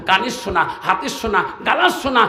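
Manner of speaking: ordinary delivery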